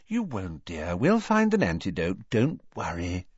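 put-on calm a worried girl gently; soothing. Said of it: "said Missus Weasley soothingly".

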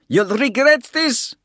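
put-on high, loud snarling old man. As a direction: threaten him with a snarl. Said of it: "the German snarled at Bald".

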